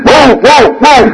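high mock howling; playful pack howl; dogs howling along. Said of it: "all the other dogs start playing".

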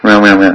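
half-hearted imitation of a baby's wail; fake baby cry. Baby faking tears for the mother, mock crying. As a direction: mimic a baby crying without meaning it. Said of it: "Fake crying goes to her mind".

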